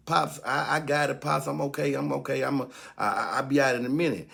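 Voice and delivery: son's hurried reassurance. Retold or imitated.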